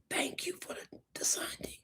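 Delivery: hushed, breathy thanks; whispered gratitude; soft thank you. Pretend. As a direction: murmur it sweetly, almost whispered. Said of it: "You gonna say".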